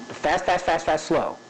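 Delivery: changing the pace. Shown as a demonstration. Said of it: "that's changing the pace".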